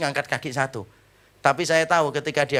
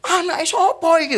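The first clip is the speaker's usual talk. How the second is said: raised, higher mock yell in Javanese; a stranger yelling whose kid this is, raised mock shout; retold shout; 11 semitones higher, 4 dB louder than usual. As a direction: call out like an annoyed stranger, half-playful. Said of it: "orang sana sudah teriak".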